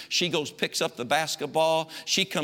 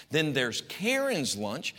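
sing-song mom; slower than usual. Retold or imitated. Mother to her son, slow and sing-song. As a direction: lay out each lunch slowly and sweetly. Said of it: "this is how she spoke to me".

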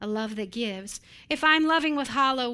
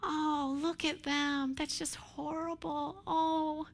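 softer, higher mock pity; 3 semitones higher, 3 dB quieter than usual. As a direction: coo over them with condescending sympathy. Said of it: "if you love somebody with pity".

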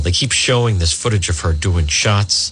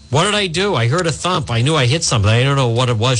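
mock panicked driver; 4 semitones higher, faster than usual. Host quoting the drunk driver to officers, in a mildly panicked high voice. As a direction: voice jumps up high, flustered and pleading. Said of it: "she told the officers".

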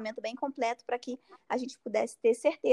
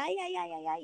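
retold pained cries; 4 semitones higher than usual. Patient starting to scream at the biopsy, mock pained cries. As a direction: rattle off imitated 'ai' cries of pain. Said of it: "Eu comecei a gritar".

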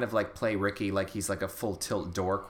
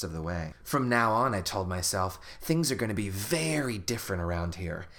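reading a story aloud; 3 semitones lower than usual. Acted. Reads book passage aloud.

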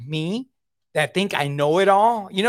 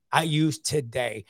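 slow emphatic repeat; 2 semitones lower, slower than usual. Shown as a demonstration. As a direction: let I use today sink in slowly.

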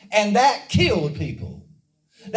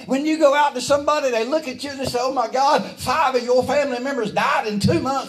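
higher-pitched, driving sermon delivery; urgent, rousing pulpit cadence; fervent preaching; 4 semitones higher than usual. Real, not acted. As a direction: preach it up high with rising fervor. Preaches in rising fervor.

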